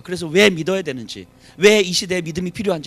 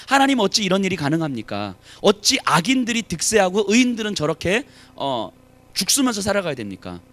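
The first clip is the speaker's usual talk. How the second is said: mild protest; 2 semitones higher, 3 dB louder than usual. Acted. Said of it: "뭐라고 이야기합니까".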